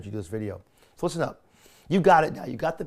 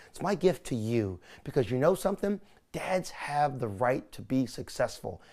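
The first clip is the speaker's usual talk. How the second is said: demo sales pitch. Shown as a demonstration. Coach demonstrates a pitch to camera in a sales voice. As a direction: coach showing a pitch video delivery, mostly normal voice. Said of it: "So here's your ticket".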